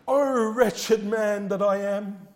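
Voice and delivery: slow, drawn-out grieving lament; slow mourning lament. Acted. Apostle grieving over his sin, slow lament. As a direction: let each word drag with sorrow. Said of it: "The one that mourns will say".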